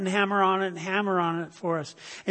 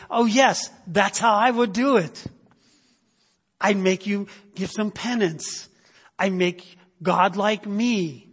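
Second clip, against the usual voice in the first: imitating worldly man; 2 semitones higher than usual. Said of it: "something we can say is".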